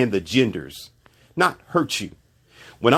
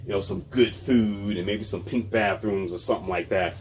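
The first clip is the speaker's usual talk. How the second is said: sarcastic; 3 semitones lower, 4 dB quieter than usual. Pretend. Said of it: "being sarcastic".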